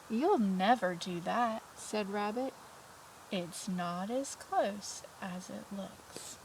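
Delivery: slow, knowing rabbit; lightly voiced matter-of-fact rabbit. Rabbit dismisses Mole.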